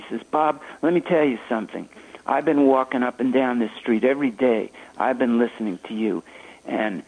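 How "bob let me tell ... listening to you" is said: quick, excitable retelling of Mingus; talking very fast. Retold or imitated. Jazz legend praising a young saxophonist, fast and excitable. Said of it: "he talked very fast".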